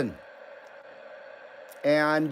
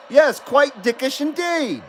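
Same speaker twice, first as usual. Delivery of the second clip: slow, higher mock British accent; 5 semitones higher than usual. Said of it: "It sounds British".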